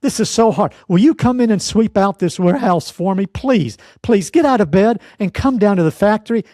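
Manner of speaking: high, whiny pleading employee; hammed-up high pleading to the boss; begging employee. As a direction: beg the boss like a helpless worker. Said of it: "you get a call from me".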